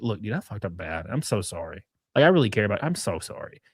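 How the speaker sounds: acted heartfelt sorry, voice dropped; sincere apology.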